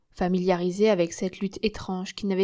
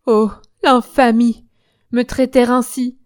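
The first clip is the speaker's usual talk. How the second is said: loud, drawn-out indignation; outraged, shamed protest; 4 semitones higher, 10 dB louder than usual. Acted. Germaine, bound and naked, protests to her captors, outraged. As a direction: cry out in shame and fury, words dragged at first. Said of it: "Elle sanglotait de honte et de fureur".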